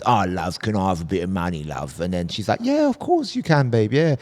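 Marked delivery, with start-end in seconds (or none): 0.0-2.0 low, soft wheedling beggar; begging addict. Retold or imitated. Crackhead asks a kind girl for money, low soft begging. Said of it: "cracker comes up to her and goes". 2.6-4.2 high, eager sweet-girl imitation; kind-hearted girl. Nice vegan girl answers a beggar, high sweet agreement. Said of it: "she's a really nice girl".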